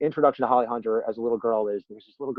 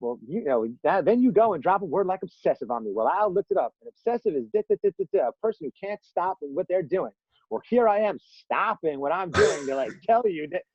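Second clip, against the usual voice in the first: imitated little girl with a Southern twang, pitched high; indignant Southern girl, mock performance; 7 semitones higher than usual. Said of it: "with this great Southern twang".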